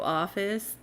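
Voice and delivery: "office" said with audible air quotes, a slight rise; air-quoted office. Shown as a demonstration. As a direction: ironic scare quotes on "office". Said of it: "quote, quote".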